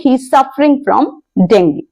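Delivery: very slow, deliberate example sentence; slow, careful English demo; slow model sentence. Shown as a demonstration. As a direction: spell it out word by word for learners. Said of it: "तो आप कहेंगे".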